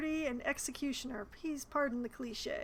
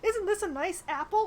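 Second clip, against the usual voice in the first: higher, airy guard voice, louder; mock oblivious guard; 4 semitones higher, 4 dB louder than usual. Player mocking a guard who could have looked away, airy and higher. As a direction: play a guard ignoring passersby with an apple. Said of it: "He could have chosen to be like".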